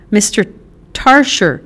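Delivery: rising into a high, loud shriek. Acted. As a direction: panic building to a shriek on the last words. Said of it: "Carlotta shrieked".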